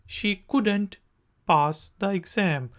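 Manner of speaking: couldn't, quick and run together. Shown as a demonstration. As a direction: clip could not to couldn't. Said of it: "faster".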